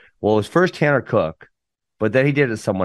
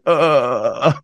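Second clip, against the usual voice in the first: drawn-out dumbfounded "uhhh"; imitated blank drone with no answer; stumped "uh". Imitated dad told to stop yelling, stumped. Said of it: "I didn't know what to say".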